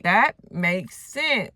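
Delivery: slow, drawn-out mock agreement; mocking disbelief. Storyteller mimicking Elaine's acceptance, mocking. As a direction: stretch each word in mock amazement.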